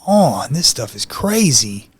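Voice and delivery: slow, hushed disbelief; stunned thought after the encounter. Retold or imitated. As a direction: let it out slowly, stunned. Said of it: "I was like".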